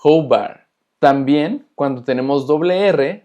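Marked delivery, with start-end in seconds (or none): 0.0-0.7 Roubar said "ho-BAR" with a throaty h start; Roubar, first R as a breathy h; Portuguese R. Shown as a demonstration. Teacher modelling a Portuguese initial R, throaty h. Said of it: "Después tenemos roubar".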